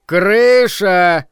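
loud squeaky announcing call; squeaky rubber duck. A narrator's reading. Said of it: "скрипучий голосок".

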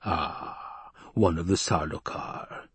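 hushed, slow inner voice; whispered thought. Acted. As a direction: breathe it as a private thought. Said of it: "the Baron thought".

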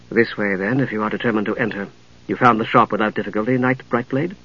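low, soft, courteous woman; composed lady knight. Acted. Lady knight showing the visitors through, composed and courteous. Narrator voices Lady Catherine.

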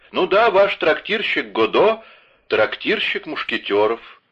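высоко и громко, с нажимом; убеди их, что это трактирщик; настойчиво. Acted. Д'Артаньян настаивает. (настойчиво, высоким громким голосом)

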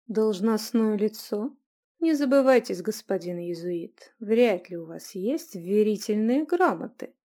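slow, cutting sarcasm; mock his claim of office; sarcastic. Adelia mocks the prior's claim to authority. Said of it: "язвительно проговорила Аделия".

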